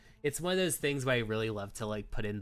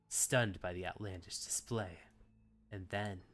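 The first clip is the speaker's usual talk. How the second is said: measured storybook narration; story narration. A narrator's reading. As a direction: read it like a novel narrator. Reads visual novel narration.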